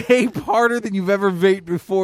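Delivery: mock heroic urging.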